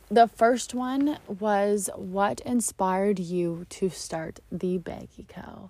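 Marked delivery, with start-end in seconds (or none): 1.9-5.7 whispering. Acted. Reading a listener's question.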